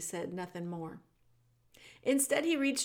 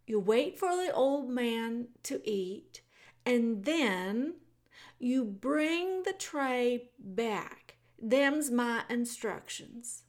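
put-on slow, higher country girl reciting her orders; plain-speaking servant girl; 4 semitones higher, 5 dB louder, slower than usual. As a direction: spell out the rules slowly like a simple girl.

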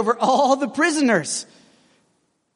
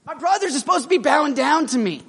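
whiny complaint; 3 semitones higher than usual. Pretend. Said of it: "he could have just sat back and been like".

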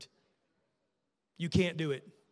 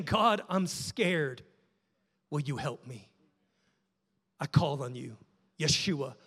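prayer. Acted. Preacher modelling a frightened believer's prayer, building.

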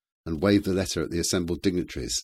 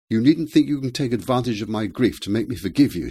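high, loud, indignant woman; angry shout; 6 semitones higher, 7 dB louder than usual. A narrator's reading. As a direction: shout it at an unwelcome visitor. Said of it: "she shouted".

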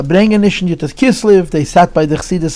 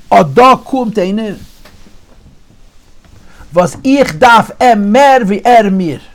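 a hint of a sing-song rebbe voice; Rebbe's Yiddish saying; 3 semitones higher than usual. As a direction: recite the Rebbe's words in Yiddish like an old teaching. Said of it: "I'm gonna say it in Yiddish".

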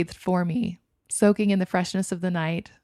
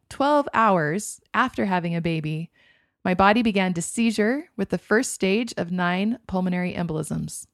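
plain reading voice

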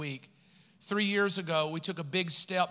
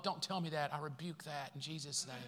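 mock rebuke; 5 semitones lower, 12 dB quieter than usual. Joke rebuking low offering.

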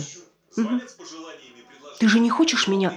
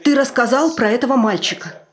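louder, rising fear as she tells it; frightened outburst; 4 semitones higher, 5 dB louder than usual. Acted. Wife retelling the burned boy story to her husband, frightened and louder. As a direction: let the fear spill out.

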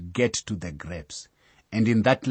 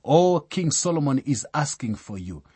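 excitedly; 4 semitones higher than usual. Acted. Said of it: "comes to her excitedly".

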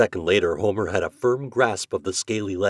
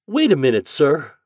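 higher, louder urgent plea; pleading; 8 semitones higher, 7 dB louder than usual. A narrator's reading. Mother to store owner threatening the turkey, pleading. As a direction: plead with him to hold off. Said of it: "pleaded Missus Tidd".

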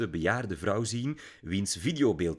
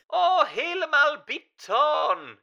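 put-on very high, slow, loud German-accented cry; German diva crying out "betoon"; German accent exclamation; 6 dB louder, slower than usual. A narrator's reading. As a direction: gush "betoon" with a long German oo. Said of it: "riep ze".

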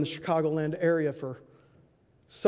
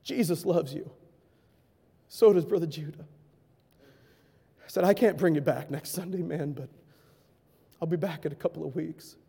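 gentle. Retold or imitated. Tender words to the boy.

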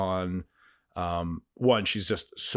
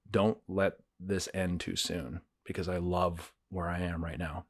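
recalled prayer; 4 dB quieter than usual. Retold or imitated. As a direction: recall a heartfelt prayer, softening toward the end. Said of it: "I remember actually praying this out loud".

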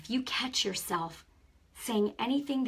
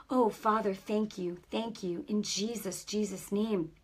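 commanding deliverance prayer; laying a curse. Acted. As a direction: rebuke the sickness with authority. Commanding sickness to leave.

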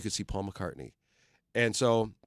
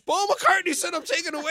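high, louder awestruck voice; much higher, wide-eyed disbelief; retold amazement; 7 dB louder than usual. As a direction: gasp it out star-struck. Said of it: "And I'm going".

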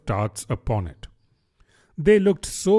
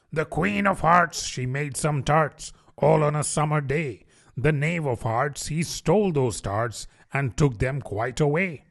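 a light sing-song recital; lightly voiced herald rabbit; rabbit reciting; 2 semitones higher than usual. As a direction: read the rhyme like a herald. The rabbit reads the verse.

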